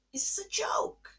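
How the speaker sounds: whispered, drained of voice; broken whisper. Retold or imitated. In the bathroom while the kids sleep, whispering. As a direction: let it collapse into a whisper. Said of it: "And I'm like".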